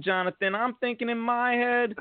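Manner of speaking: mock inner panic. Real, not acted. High excited inner thought aside.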